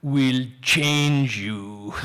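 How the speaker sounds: low, very slow, solemn pronouncement; low drawn-out prophecy; prophet voice. Retold or imitated. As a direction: intone it like a prophet of doom. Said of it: "Every story needs a prophet".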